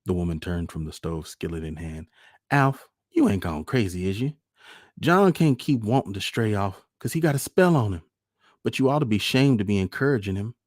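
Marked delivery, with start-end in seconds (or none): 2.5-10.5 higher, loud, indignant wife; scolding wife. A narrator's reading. Wife scolds Alf for encouraging their son to leave, indignant. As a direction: lay into your husband, high and loud.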